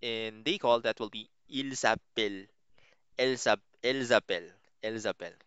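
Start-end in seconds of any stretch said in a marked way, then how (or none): 1.5-2.5 "ils appellent" run together as eel-za-pell; French liaison. Shown as a demonstration. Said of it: "there's an Z sound". 3.8-4.5 "elles appellent" linked as ell-za-pell; French liaison. Shown as a demonstration. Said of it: "there's an Z sound". 4.8-5.4 "Elles appellent" run together as ell-za-pell; French liaison. Shown as a demonstration. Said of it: "there's an Z sound".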